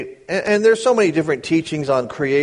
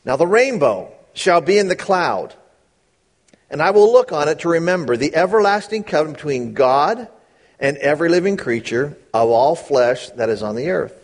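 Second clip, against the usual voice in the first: slow reading. Shown as a demonstration. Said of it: "Read it slowly".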